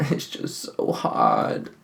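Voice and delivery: breathless, airy laugh; winded from the effort, words half breath. Real, not acted. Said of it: "I'm out of breath from turning a center".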